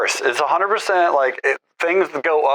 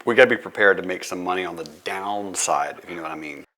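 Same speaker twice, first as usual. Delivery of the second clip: bathroom echo; 4 semitones lower, faster than usual. Real, not acted. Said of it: "what's that echo".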